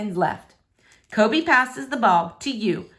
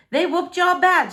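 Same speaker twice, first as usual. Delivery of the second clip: teasing laugh; 8 semitones higher, 4 dB louder than usual. Acted. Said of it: "she says, laughing and tickling".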